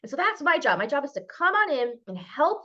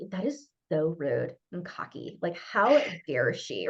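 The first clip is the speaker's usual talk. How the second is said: offended lady; 7 semitones lower, slower than usual. Retold or imitated. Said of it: "I had one lady was like".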